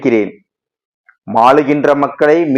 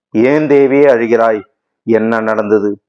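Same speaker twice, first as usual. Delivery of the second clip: alarmed; 3 semitones lower than usual. Acted. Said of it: "பக்தன் பதறினான்".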